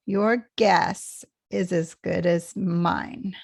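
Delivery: slow, YOUR GUESS weighted, the rest lighter; stress on GUESS. Shown as a demonstration. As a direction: take it slowly, leaning on GUESS. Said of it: "most stressed part".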